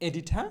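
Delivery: এডিঠা with aspirated ঠ and open আ, no r; corrected pronunciation. Shown as a demonstration. Teacher drilling editor with learners, এডিঠা with aspirated "tha". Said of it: "এই তিনটা আমরা কী দেখলাম".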